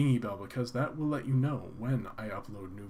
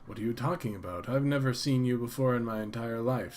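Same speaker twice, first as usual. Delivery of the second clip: dorky guy. Acted. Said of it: "says the dorky-looking guy".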